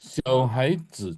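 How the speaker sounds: XIAO HAIZI slowly, syllable by syllable; measured tone demo of XIAO HAIZI; model reading. Shown as a demonstration. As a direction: teach XIAO HAIZI with swung XIAO and short HAI. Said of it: "Coba baca ini".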